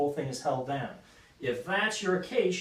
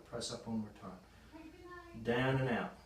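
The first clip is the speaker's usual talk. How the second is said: soft instruction for the last rep; low, close cue to the lifter; quiet coaching cue; 4 semitones lower, 8 dB quieter than usual. Real, not acted. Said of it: "coach cueing final rep".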